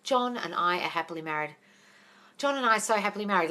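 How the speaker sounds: stated firmly as truth; said with meaning. Shown as a demonstration. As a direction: decree it like telling a friend. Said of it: "I just want you to say it".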